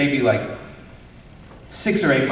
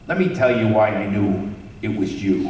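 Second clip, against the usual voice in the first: put-on light, friendly old-man voice, lightly done; a gentle nod to Stan Lee's cheerful greeting; Stan Lee impression; 4 semitones lower than usual. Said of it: "as Stan Lee".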